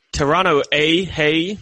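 badly faked Canadian accent. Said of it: "Your, your Canadian accent is almost as bad".

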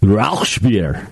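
Rauchbier as "rowsh-beer"; mistaken sh pronunciation. Shown as a demonstration. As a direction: slip an sh into Rauchbier. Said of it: "Actually, there's no sh in German".

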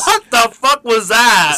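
laughing disbelief. Real, not acted. Recalling the disastrous comedy show.

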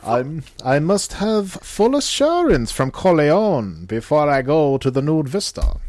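hammed-up Godfather don; Godfather impression. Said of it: "Come on, The Godfather".

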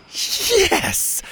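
a high, squeaky hushed cheer; tiny hushed yes; quiet celebration. A narrator's reading. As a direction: celebrate under your breath. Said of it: "Zeta quietly celebrated".

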